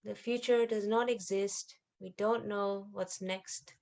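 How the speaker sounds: quiet, unhurried prayer to the Mother; gentle spoken affirmation with long pauses; meditative prayer. Acted. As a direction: pray softly, pausing between phrases.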